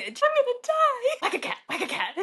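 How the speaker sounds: imitating Mark's cackle; cackling. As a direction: laugh helplessly while calling it out.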